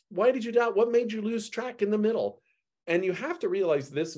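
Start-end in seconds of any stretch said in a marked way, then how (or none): 0.1-0.7 high, playful "Why did you doubt?"; amused, affectionate rebuke; with a twinkle. Acted. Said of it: "I've got to read this with a twinkle". 0.8-2.4 high, playful teasing Jesus; amused, fond disbelief; with a twinkle. Acted. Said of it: "I've got to read this with a twinkle".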